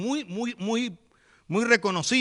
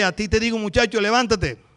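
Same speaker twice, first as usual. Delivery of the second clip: louder, firm command to rise; commanding call; 4 dB louder than usual. Acted. Jesus ordering the dead boy to rise, loud command.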